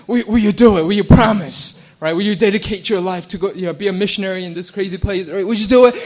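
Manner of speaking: loud, pressing revival preacher voice; pushy altar call. Retold or imitated. Preacher urging the crowd at a revival, loud and pushy. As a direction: lean on the crowd for a promise.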